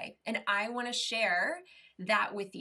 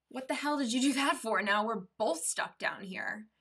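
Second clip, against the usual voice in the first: exasperated; 2 semitones higher, 4 dB louder than usual. Acted. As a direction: scold a friend in mock disbelief. Trapped man scolds friend who jumped.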